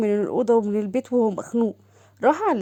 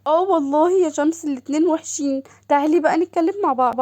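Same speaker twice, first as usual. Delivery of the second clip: higher, eager sister calling; sister's voice; 5 semitones higher than usual. Acted. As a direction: gush over her sister on the phone. (صوت أخت متلهفة أعلى)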